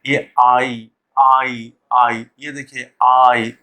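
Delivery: "आई" drawn out as a gliding vowel; diphthong demo. Shown as a demonstration. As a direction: sound out "आई" slowly, repeating it. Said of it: "ये diphthong है ये".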